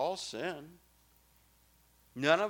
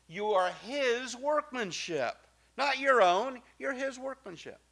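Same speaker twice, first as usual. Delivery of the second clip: higher, slowed, emphatic; rising exhortation; 9 semitones higher than usual. Real, not acted. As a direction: lift it on "his workmanship". Preaching emphasis on God's work.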